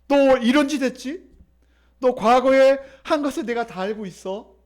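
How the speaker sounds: mild mock scolding. Preacher shows how God does not scold, mildly reproachful. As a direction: play a father telling off his child. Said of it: "이렇게 꾸짖지 아니하셔요".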